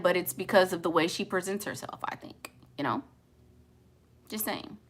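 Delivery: whispered afterthought. Real, not acted. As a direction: lean in and whisper it. Whispered confession.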